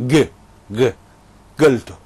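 گلتو said with a hard g where the qaf should be; mock the g sound in گ and گلتو; imitating a g for qaf. Host imitating dialect speakers, lightly mocking g for qaf.

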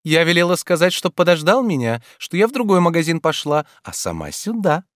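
put-on high, lively young woman voice; Ольга, звонкая девушка. A narrator's reading. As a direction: play Olga pleading playfully. Olga's voice. (звонкий голос юной Ольги)

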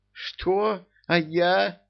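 high, outraged protest; indignant. A narrator's reading. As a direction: squeal it in protest. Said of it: "возмутилась Жасмин".

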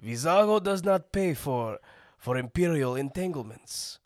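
high gruff smuggler voice; Vizago impression. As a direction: play a sly greedy smuggler. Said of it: "Can you do a Vizago?".

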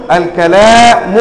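"الكلام" said slowly as al-kalāmu; nominative ending. Shown as a demonstration. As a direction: finish "الكلام" on u. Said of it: "تقول".

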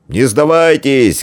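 slow, drawn-out call from afar; rally them from the tower. A narrator's reading. A warrior calls from the tower to hold on, slow call. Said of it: "крикнул с башни городища дружинник".

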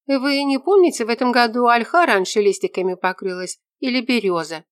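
put-on young woman asking a very serious question; earnest young woman. A narrator's reading. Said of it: "спросила она серьёзно".

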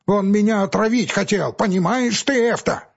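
high, loud, insistent; angry accusation. Acted. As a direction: press the accusation hard. Quarrel continues.

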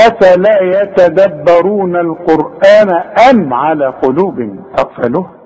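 slow measured recitation; tajweed verse reading; Quran recitation. Acted. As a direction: recite slowly and carefully.

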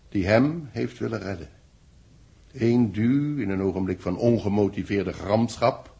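measured, solemn dictation to readers; story narration. Acted. Writer dictating his story to the readers, solemn. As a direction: read it like the chapter of a novel.

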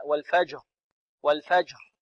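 والفجر ending in a breathy, voiceless r; unvoiced final ra. Shown as a demonstration. Teacher imitates students' error, voiceless r ending والفجر. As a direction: let the r of والفجر die away without voice. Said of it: "لكن بدون جهر".

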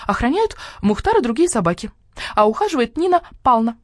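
high, eager hen voice; the hen boasting about her home; proud hen. Acted. Hen praises the coop. (гордая курица, голос выше)

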